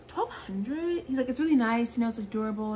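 put-on a proud boyfriend justifying the price; imitating Brett.

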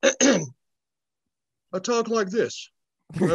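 put-on British accent, slow and drawn out. Shown as a demonstration. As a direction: answer in a mock British voice. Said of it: "turned British all of a sudden".

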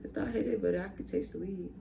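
lips pressed to hose tip; speaking between hookah puffs; talking around hookah mouthpiece. Real, not acted. Seen 0: Hookah mouthpiece held at her lips throughout the labelled words.

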